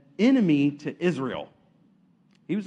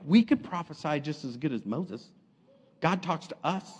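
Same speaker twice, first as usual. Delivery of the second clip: lightly acted smug attitude; understated self-important prophetess; Miriam with attitude; 3 semitones lower, 5 dB quieter than usual. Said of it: "my attitude of how she's saying it".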